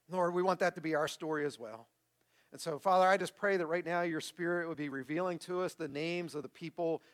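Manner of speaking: sincere, measured public prayer. Real, not acted. Pastor closing the sermon in prayer, sincere and measured. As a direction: lead the congregation gently in prayer.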